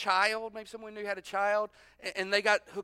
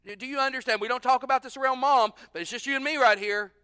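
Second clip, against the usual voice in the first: confronting son; 3 semitones higher, 4 dB louder than usual. Acted. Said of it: "You're kinda going".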